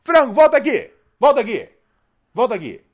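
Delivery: loud shout that fades each time; snarling punk. Acted. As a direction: call the dog back, calming down. Calling the dog back.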